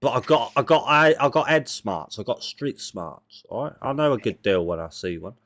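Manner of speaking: put-on a kid trader slipping into a rough local accent; lightly put-on street-kid accent; accidental accent. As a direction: haggle like a cheeky market boy in a put-on accent. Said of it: "I don't know why I've turned into this accent".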